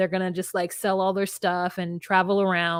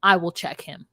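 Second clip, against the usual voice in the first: calm reassurance; 4 semitones lower than usual. Retold or imitated. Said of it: "she's like".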